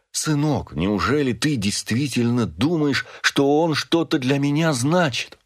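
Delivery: pleading. A narrator's reading. Father pleads with son.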